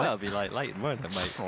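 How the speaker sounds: mock Aussie twang, mate; lightly put-on Australian voice; Australian accent. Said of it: "This for my Australian accent".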